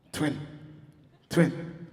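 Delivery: hiding-in-a-room hush; hushed phone whisper. Retold or imitated.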